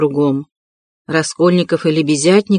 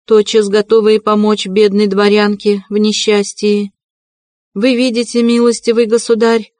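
proud widow; 4 semitones higher than usual. Acted. Katerina's long proud speech.

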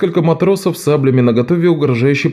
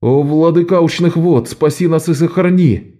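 higher-pitched hurried prayer, lightly voiced; a hint of frightened sailors praying; sailors muttering prayer; 7 semitones higher than usual. A narrator's reading. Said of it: "забормотали матросы". (матросы вполголоса молятся богу вод)

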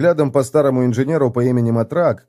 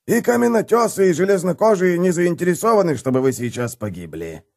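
icy tone; 9 semitones higher than usual. Acted. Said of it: "негромко добавил он ледяным тоном".

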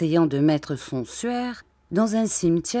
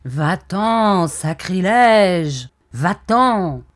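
loud, furious "go away"; angry shout; 7 dB louder, much slower than usual. Acted. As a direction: drive him off with a shout. Ghost shouts at the graveyard keeper. (cri furieux)

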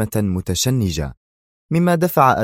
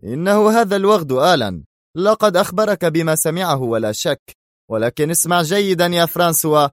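higher, harsh threat; angry shout; 9 semitones higher than usual. Acted. Shimon threatens François, angry shout. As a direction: snarl a death threat. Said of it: "صاح شيمون في غضب".

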